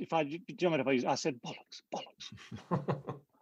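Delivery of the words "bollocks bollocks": slow, soft under-the-breath whisper. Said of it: "And under my breath said".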